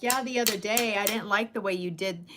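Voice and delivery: telling a friend straight what bothered her; blunt. Shown as a demonstration. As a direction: say it flat out, no softening. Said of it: "instead of saying".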